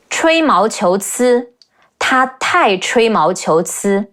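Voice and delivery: slow, careful teacher's modelling; slow demonstration. Shown as a demonstration. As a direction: say it slowly, syllable by syllable. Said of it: "words she dealt with really well".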